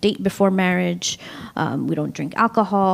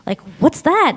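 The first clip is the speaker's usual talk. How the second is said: high, baffled "where?"; puzzled question; 9 semitones higher, slower than usual. Retold or imitated. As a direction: sound like you've never heard of it. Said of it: "They're like".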